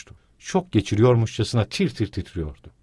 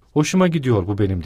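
shouting; 4 dB louder than usual. Acted. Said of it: "diye bağırıyordu bir yandan da".

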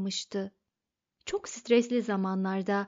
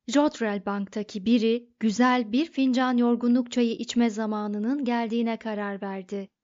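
plain reading voice

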